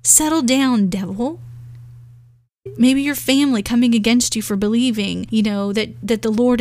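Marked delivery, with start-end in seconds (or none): 0.0-1.4 bold command. Shown as a demonstration. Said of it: "take a stand boldly with authority and say".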